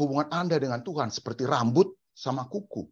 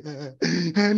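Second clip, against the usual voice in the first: short imitated crying sound; hammed-up weepy noise; mock sobbing; 4 semitones higher, 3 dB louder than usual. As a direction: fake a churchgoer's sob. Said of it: "Kemudian hari Minggu nangis lagi".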